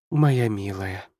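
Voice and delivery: lingering over each word gently; tender, slow. Acted. Mother to her daughter, tender and slow.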